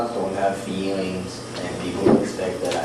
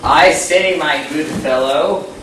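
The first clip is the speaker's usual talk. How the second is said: loud, hammy upper-class English gentleman; hammed-up posh British accent; posh British gent; 5 semitones higher, 4 dB louder than usual. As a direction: play a pompous English toff.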